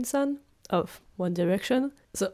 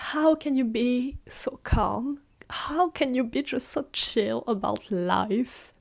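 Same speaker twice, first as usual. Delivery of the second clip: incredulous whisper; 3 semitones higher than usual. Retold or imitated. Incredulous question to calm roommate.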